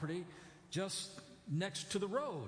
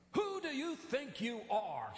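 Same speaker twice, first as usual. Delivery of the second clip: a hint of a defiant four-year-old; slow, cheeky challenge from a small boy; little boy talking back; sulky kid retort; 4 semitones higher than usual. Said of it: "he turned to me and he said".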